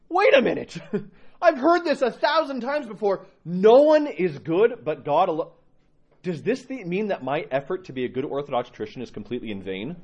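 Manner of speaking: high, startled, slowing at the key words; a dawning shock; shocked realization. Retold or imitated. Reading scripture, struck by it, high and shocked. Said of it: "I read that and I went".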